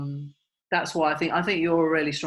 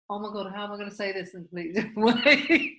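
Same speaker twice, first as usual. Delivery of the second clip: excited self-quote; 3 semitones higher than usual. Retold or imitated. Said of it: "I'm like".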